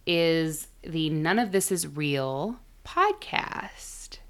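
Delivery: slow, hushed announcement; whispered intro. Acted. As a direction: breathe the title slowly.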